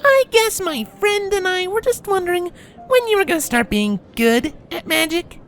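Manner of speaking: very high taunting filly voice. A narrator's reading. Filly picks on the colt over magic, taunting. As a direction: needle them in a high mocking voice. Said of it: "she asked tauntingly".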